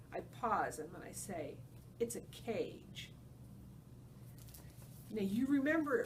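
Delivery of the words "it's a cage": slow, hushed and heavy. Acted. Ivan finally telling Ruby the truth, slow and hushed. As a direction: let the truth land slowly. Ivan's solemn resolve.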